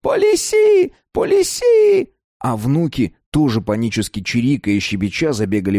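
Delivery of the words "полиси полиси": put-on old man's shrill panicked squeal, much higher and louder; panicked squeak. A narrator's reading. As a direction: squeal it out in alarm like a frightened old man. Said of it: "зашёлся в свисте и клёкоте".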